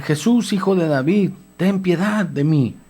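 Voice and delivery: high pleading cry, slow at the end. Acted. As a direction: call out to Jesus, begging. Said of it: "Bartimeo entonces empieza a gritar". (clamor suplicante)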